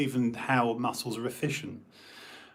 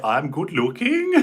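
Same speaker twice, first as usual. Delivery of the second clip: imitating a friend's lisp, higher and louder; 5 semitones higher, 7 dB louder than usual. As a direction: lisp through it like Bruce. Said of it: "bit of a lisp".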